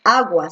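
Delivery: "agua" with a clear w glide after the g; u pronounced. Shown as a demonstration. Teacher corrects the reading of agua, u sounded. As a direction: say "agua" as AH-gwa. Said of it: "sí estás leyendo la U".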